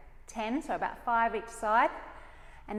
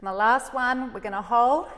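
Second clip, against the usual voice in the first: loud cue; 7 dB louder than usual. Real, not acted. Coach cueing class mid-exercise.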